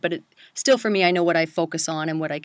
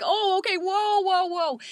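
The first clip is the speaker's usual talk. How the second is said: high, mock-taken-aback whoas; startled backing-off; 12 semitones higher, slower than usual. Acting out her startled reaction.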